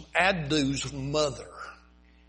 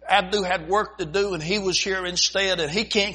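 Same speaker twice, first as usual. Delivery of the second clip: angry mother; 4 semitones higher than usual. Retold or imitated. Angry woman voiced in story.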